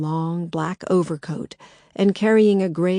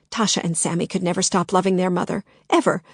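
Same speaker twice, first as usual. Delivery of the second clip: snapping; 4 dB louder, faster than usual. Acted. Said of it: "Agnes snapped".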